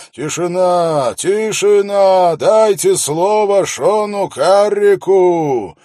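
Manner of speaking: booming, slow herald's shout over the crowd; town crier. A narrator's reading. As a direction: outshout the whole crowd. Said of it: "без труда перекричал толпу".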